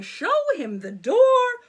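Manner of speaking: loud, high yell; king yelling. A narrator's reading. King yelling for the guards. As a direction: call the guards. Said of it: "yelled the king".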